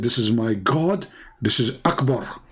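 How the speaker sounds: slow, low, awed declaration; hammed-up worship of the sun; mock reverent Abraham. Abraham in the host's satire proclaiming the sun his god, slow and awed. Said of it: "And he said".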